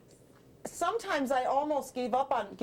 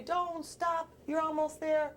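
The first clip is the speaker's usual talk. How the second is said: encouraging voice; slower than usual. Acted. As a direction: urge someone on from afar. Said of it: "he heard a voice say".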